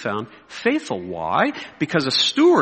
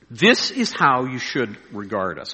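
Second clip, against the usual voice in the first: slow, lower-pitched scripture reading; 5 semitones lower, slower than usual. Shown as a demonstration. Preacher reading Paul's answer to critics, slowly. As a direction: weigh each word as you read. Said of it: "I'm gonna read it slowly".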